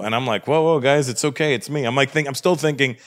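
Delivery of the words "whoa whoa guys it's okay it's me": calm them down, acted and urgent; placating. Comedian telling armed guys it's him, placating.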